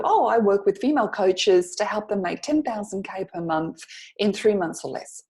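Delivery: easy, natural chat reply; casual conversational answer. Shown as a demonstration. Coach voicing a client's casual answer in conversation. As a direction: toss it off like small talk. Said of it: "so what do you do?".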